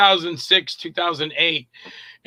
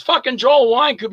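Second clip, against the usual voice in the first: mock-exasperated, pitched up; exasperated Nick; 6 semitones higher, 3 dB louder than usual. Director greeting the actor who waited, mock exasperation. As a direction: imitate a director's incredulous greeting.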